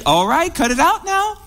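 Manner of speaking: high, tense warning held in without shouting; warning grandmother. Retold or imitated. Grandmother to misbehaving grandchild, high-pitched restrained warning.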